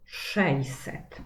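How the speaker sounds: "sześćset" slowly shown as szejset; most simplified pronunciation. Shown as a demonstration. Teacher showing pupils an accepted short form, "sześćset" as szejset. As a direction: say "sześćset" with a y-glide instead of ść. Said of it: "będzie to poprawna wymowa".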